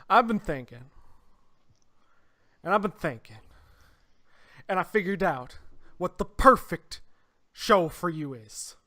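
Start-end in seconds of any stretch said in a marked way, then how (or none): 2.6-8.8 put-on a hammy, drawled Southern accent; bad Southern accent. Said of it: "bad Southern accent".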